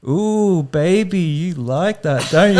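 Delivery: high, drawn-out sultry put-on moan; full-on dirty talk. Man mimicking the sex worker to mates, full-on dirty talk. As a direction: ham up a sex worker's come-on. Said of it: "full on, like".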